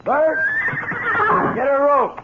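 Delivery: urgent call. Acted. Mac calls out after accident.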